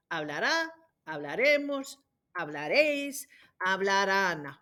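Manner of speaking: Hablará, hablaremos, hablaréis, hablarán, each punched on the accented vowel; stress on accented endings. Shown as a demonstration. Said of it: "The accents are hugely important".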